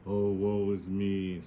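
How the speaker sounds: slow, droopy self-pity; mock moping. Adam moping alone in the garden, slow mock sighing. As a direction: drag it out like a sulking lover. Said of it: "he's walking around moping".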